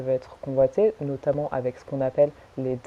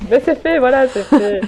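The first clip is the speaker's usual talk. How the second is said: excited relief; 9 semitones higher, 6 dB louder than usual. Real, not acted. Laughing relief after presentation.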